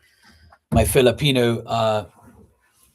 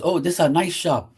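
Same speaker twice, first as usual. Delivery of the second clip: higher, amazed tone; impressed worker imitation; 6 semitones higher than usual. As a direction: sound amazed like the polite worker. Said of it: "He goes".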